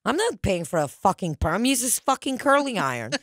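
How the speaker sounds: mock exasperated mother, rising in pitch; bitchy mom. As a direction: imitate a mom's snappy refusal. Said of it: "she would be such a bitch".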